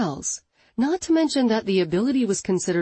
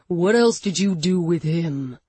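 louder angry demand; barked; 4 dB louder than usual. Acted. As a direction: bark the demand at her. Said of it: "he barked".

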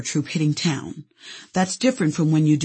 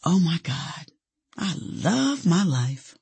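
slow, savored self-talk; relishing it, unhurried; marveling to oneself; 3 dB quieter, slower than usual. Retold or imitated. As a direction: draw it out as a private, awed exclamation. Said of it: "saying out loud to no one".

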